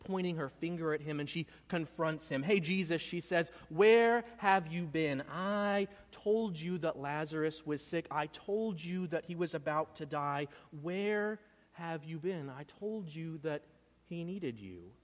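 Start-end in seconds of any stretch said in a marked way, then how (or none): 2.4-3.0 hurt. Acted. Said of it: "You can sense, you can feel the, the hurt in her voice". 3.7-14.9 hurt in her voice. Acted. Martha confronting Jesus about her dying brother, hurt and reproachful. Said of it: "You can sense, you can feel the, the hurt in her voice".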